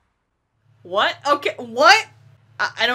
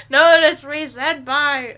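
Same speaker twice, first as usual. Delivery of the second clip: overacted anime dub; 2 semitones higher, 6 dB louder, slower than usual. Repeats anime plea, laughing.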